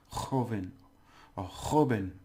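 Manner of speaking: joven opened with a rasped "kh"; throaty Spanish J. Shown as a demonstration. Teacher giving the word for young person, throaty J. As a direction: say joven as "KHO-ben", J from the throat. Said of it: "the J has to be".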